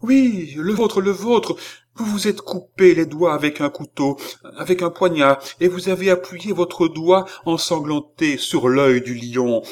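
high excited seer; excited revelation. Acted. Seer reveals his blood.

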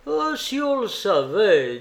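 exclamation plus haute, légèrement moqueuse; lance-le comme un secret qu'on nargue; nain railleur. Acted. Troisième nain, raillerie mystérieuse. (nain qui ricane, mystérieux)

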